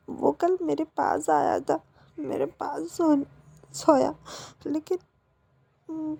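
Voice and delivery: tearful, voice catching as he pleads; a son weeping as he begs his mother; crying boy. Acted. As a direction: beg forgiveness through sobs. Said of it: "इसी तरह रोए जा रहा होता है".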